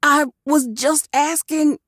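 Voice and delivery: high, meek whimper. A narrator's reading. Orc whimpers after being threatened, high and meek. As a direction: shrink back, just asking. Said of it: "he whimpered".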